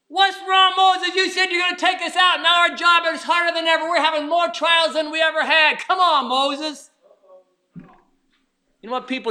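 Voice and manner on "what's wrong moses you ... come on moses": 1 complaining crowd. Retold or imitated. Complaining Israelites voiced in sermon.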